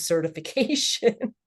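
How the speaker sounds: breaking into a laugh on the last word. Real, not acted. Guest laughs now about panicking over a work email, laughing. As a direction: let amused disbelief spill into a laugh. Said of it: "I laugh about it now".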